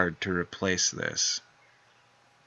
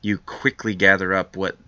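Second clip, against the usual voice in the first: story narration. Acted. Reads aftermath text.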